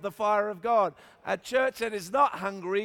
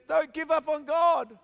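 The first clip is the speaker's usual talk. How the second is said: higher-pitched mock-tearful plea; imitated crying; 6 semitones higher, 4 dB louder than usual. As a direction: plead like a tearful pastor, hammed-up. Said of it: "and he's crying".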